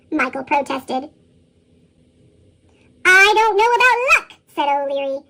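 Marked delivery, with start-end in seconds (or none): 3.0-4.4 louder, higher, climbing in indignation; raised-voice leprechaun retort; voice rising. A narrator's reading. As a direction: let the pitch climb as you object. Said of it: "his voice rising".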